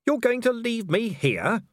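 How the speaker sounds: high, startled disbelief; a stranded man realizing he's left; alarmed. Acted. Stranded Vimes to the vampire, high and alarmed.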